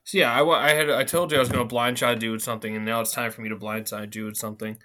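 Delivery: slurring from a numb mouth; words a bit slurred after dental surgery. Real, not acted. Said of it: "My mouth is still numb".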